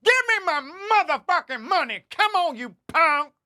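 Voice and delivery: full-volume mock street shout; street guy shouting. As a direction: scream it like a street fight. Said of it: "I heard some guy go".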